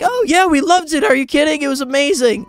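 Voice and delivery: high-pitched retold enthusiasm; excited gushing. Fan answering the creator about the show, acting out excited praise. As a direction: gush eagerly, starting very high and easing down.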